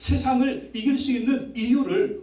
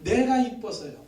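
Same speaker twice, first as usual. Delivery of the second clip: slow, earnest own confession; the preacher taking the child's words as his own; sincere confession; 2 semitones higher than usual. Shown as a demonstration. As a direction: say it as your own heartfelt faith. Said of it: "이 표현을 아이가 그렇게 표현한 거예요".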